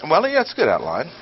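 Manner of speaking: quick, half-hearted well, yeah, it's a good outline; grudging irony. Shown as a demonstration. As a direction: concede it with a wink. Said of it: "it's pretty ch".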